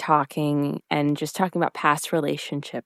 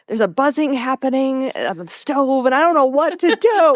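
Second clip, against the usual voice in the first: panicky Grandma; 6 semitones higher than usual. Retold or imitated. Emily panicking over the stove timer.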